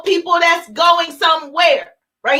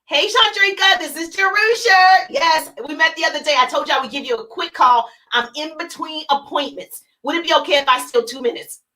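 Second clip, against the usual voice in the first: confident phone call. Shown as a demonstration. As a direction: sound busy, friendly and quick. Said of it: "say her name as if you know them".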